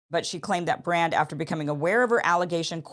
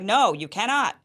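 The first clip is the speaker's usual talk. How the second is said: louder, sharp retold no; a touch of her anger, higher and louder; angry refusal; 4 semitones higher, 5 dB louder than usual. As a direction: shut him down with a mild mock anger. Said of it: "And she was angry about that".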